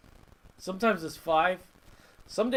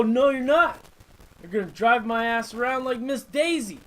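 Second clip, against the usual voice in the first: louder, higher mock-wife put-down; bossy wife voice; 5 semitones higher, 5 dB louder than usual. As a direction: shut him down like the bossy old lady. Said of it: "And she's gonna go".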